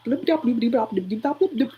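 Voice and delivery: rapid string of bloop noises; imitated bubbling thoughts. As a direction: bloop along like a busy brain ticking over. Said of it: "I think. I just bloop".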